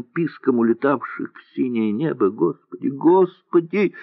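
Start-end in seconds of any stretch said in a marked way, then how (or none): 2.3-2.9 crying out. A narrator's reading. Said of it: "громко заплакала Муся". 2.9-3.9 high, drawn-out wail of despair; girl's desperate wailing cry, higher and slower; loud crying plea. A narrator's reading. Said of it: "громко заплакала Муся".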